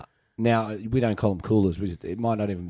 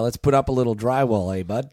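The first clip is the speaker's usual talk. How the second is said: put-on Canadian accent. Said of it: "I always say, like".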